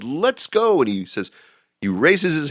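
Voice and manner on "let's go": high excited cabbie; gleeful shout. Retold or imitated. Drunk cabbie heading downhill, high and thrilled. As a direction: whoop it like a joyride.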